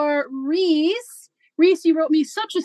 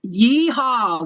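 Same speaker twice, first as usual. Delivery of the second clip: character voice yeehaw; 4 semitones lower than usual. Pretend. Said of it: "Can you all say "yeehaw" in your character voice?".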